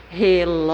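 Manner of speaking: Relógio with LÓ held long and loud; re-LÓÓÓ-gio, swelling on the middle; stressed syllable exaggerated. Shown as a demonstration. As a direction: stretch the ló of Relógio like a call. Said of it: "penúltima".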